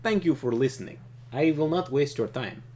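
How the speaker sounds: loud, stately warlord reading; Trakov voice. Acted. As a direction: give it weight like a villain's speech.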